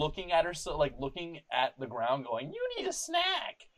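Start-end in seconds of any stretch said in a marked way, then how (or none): 2.5-3.7 mimicking a muttering stranger. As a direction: imitate her chanting it to herself, way up high. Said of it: "She says it, like, eighteen times".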